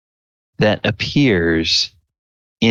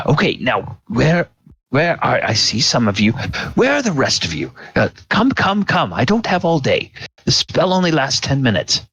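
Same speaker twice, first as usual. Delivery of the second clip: higher, testy wizard summoning everyone; impatient old mage; 5 semitones higher, faster than usual. Acted. Old mage gathering the adventurers, impatient. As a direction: hurry them along with repeated calls.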